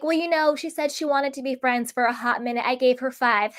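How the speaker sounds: lightly mocking, giggly retelling; mock laughing. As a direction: imitate her gloating, then tack on a fake giggle. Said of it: "she was laughing about it".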